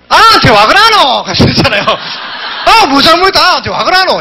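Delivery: wife defends the cat from her tipsy husband, mock-chiding; imitating the wife. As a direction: play the wife chiding him, amused. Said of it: "옆에서 와이프가 보고 있다가".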